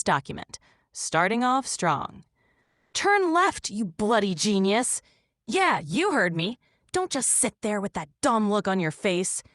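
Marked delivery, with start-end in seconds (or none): 2.9-9.4 understated bossy, irritated navigator; argumentative GPS. Acted. Profane GPS arguing with its driver, bossy irritation. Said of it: "Profane G P S that argues with its driver".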